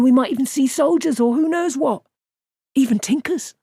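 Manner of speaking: bubbling over with adventure; excited young Matt. Acted.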